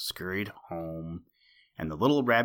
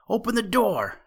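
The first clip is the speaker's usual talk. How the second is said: a much higher, frantic shout; the rabbit yelling louder, desperate; shouted even harder; 13 semitones higher, 5 dB louder than usual. A narrator's reading. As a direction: yell it again, desperate now. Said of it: "shouted the little rabbit".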